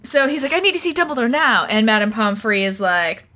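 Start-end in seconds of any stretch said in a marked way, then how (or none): 0.5-1.6 all caps Harry. Retold or imitated. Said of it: "There is a lot of all caps in this chapter".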